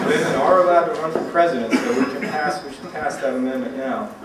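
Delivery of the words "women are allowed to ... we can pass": talking through real laughter; chuckling while joking; amused, laughing aside. Real, not acted. Joking about amendment, laughing.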